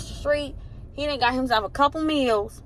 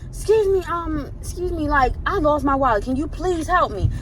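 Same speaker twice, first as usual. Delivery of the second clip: polite request; 5 semitones higher, 3 dB louder than usual. Shown as a demonstration. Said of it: "I understand more coming in like".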